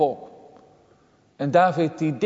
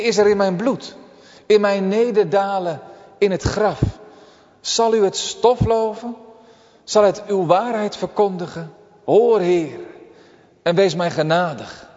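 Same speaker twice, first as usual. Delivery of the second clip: pleading prayer; 3 semitones higher than usual. Retold or imitated. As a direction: beg God for mercy from the depths. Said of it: "wat zegt hij dan". (smekende bede, verheven en luider)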